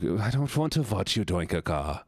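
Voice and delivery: restrained mock German objection; German-accented protest. First take of protest, German voice.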